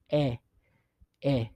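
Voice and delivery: E, e as two identical "eh" sounds; pronunciation demo. Shown as a demonstration. Teacher drilling the vowel, E, e both "eh". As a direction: repeat E, e evenly as "eh". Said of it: "it always sounds the same".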